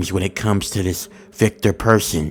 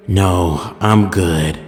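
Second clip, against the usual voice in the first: flat robotic reply; much slower than usual. Retold or imitated. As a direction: answer like a robot, no feeling. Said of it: "he responded in a robotic voice".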